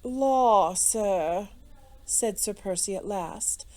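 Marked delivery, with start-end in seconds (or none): 0.0-1.5 mildly astonished gentleman; slightly marvelling exclamation; taken aback, with a touch of wonder; wonderment. A narrator's reading. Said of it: "with undisguised wonderment".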